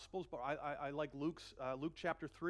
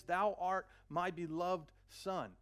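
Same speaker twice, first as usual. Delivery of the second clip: very slow, solemn declaration; slow, reverent divine proclamation; voice of God; 4 dB louder, much slower than usual. Acted. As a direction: draw out each word as the Father. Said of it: "He says".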